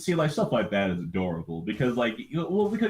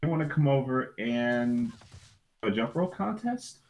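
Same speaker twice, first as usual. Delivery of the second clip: put-on eager kid voice; 4 semitones higher than usual. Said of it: "he's like".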